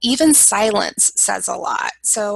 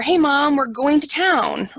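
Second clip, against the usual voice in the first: light cheerful invite; 4 semitones higher, 4 dB louder than usual. Shown as a demonstration.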